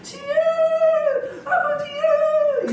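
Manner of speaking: high, drawn-out mock prayer cry; imitating feeble praying, stretched and singsong; mock chick chirp. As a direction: wail the prayer like a baby chick. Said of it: "병아리 소리 하는 거예요".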